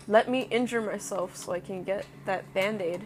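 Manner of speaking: said through a yawn. Real, not acted. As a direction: stretch it out mid-yawn. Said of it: "but because I yawned".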